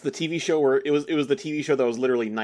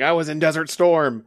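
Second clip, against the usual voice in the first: imitating a yelling cop, louder and drawn out; slow, raised, hammed-up movie shout; mock yelling; 4 semitones higher, 6 dB louder than usual. Podcaster quotes a movie cop's odd line, mock yelling.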